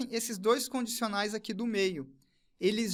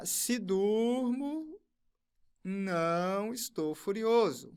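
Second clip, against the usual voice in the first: slow dictation; much slower than usual. Shown as a demonstration. Dictating premise while writing.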